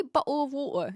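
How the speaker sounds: Cockney "bottle of water" with the t's dropped; Cockney "bottle of water" with glottal stops for the t's. Shown as a demonstration.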